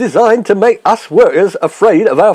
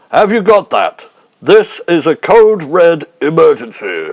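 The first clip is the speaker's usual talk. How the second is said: lightly voiced Prime Minister giving orders; a hint of the old statesman, calm and grave; Harold Macmillan. Prime Minister ordering Hancock to strike, lightly voiced. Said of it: "That's a very good impersonation".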